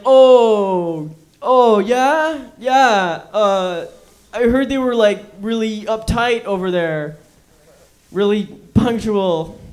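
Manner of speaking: hammed-up clueless chatter; clueless breezy reply. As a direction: brush it off like small talk. Mocking oblivious reply to survivor.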